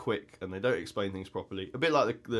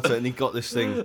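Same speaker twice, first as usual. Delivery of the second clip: ordinary delivery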